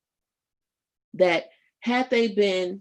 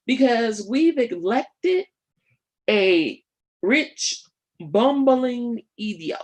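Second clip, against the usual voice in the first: put-on a weak, half-hearted Jamaican accent; lightly put-on Jamaican lilt, slow on bumbling idiot; poor Jamaican accent; 3 semitones higher, 3 dB louder, slower than usual. Commentator mocking the president in a poor Jamaican accent. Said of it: "That was my, um, poor attempt at a Jamaican accent".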